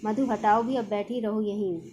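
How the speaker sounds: understated irritation; mild anger. Acted. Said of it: "हल्के से क्रोध से". (हल्का सा गुस्सा)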